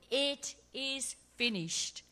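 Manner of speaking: drawn-out triumphant call; shouted in victory. Retold or imitated. Jesus on the cross, a slow mock victory shout. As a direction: ring it out as a win. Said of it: "He shouted".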